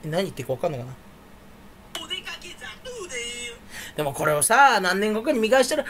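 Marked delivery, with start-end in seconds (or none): 2.0-4.0 slow, soft put-on sing-song; silly character voice. Vlogger signing off in a silly voice. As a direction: drag it out like a mascot.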